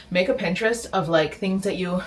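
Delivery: breathless from building the bed; panting a little between words; out of breath. Real, not acted. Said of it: "I'm out of breath".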